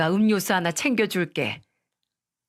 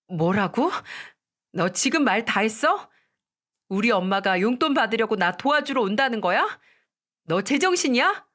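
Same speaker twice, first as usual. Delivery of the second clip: furious outrage; 3 semitones higher than usual. Acted. Wife explodes at husband.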